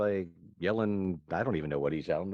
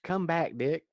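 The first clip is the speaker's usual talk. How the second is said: high pleading mock-damsel voice; Cherry calling out; 8 semitones higher than usual. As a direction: beg him to return in a light falsetto. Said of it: "her only dialogue in the movie is".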